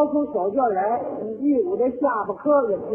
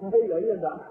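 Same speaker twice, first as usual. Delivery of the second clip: genuine laugh; 3 semitones lower, 6 dB quieter, faster than usual. Shown as a demonstration. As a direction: burst out laughing, let it die away gradually. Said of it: "回去的非常慢".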